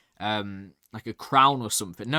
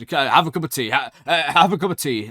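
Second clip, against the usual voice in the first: Boris Johnson impression; faster than usual. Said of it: "it's like Boris Johnson".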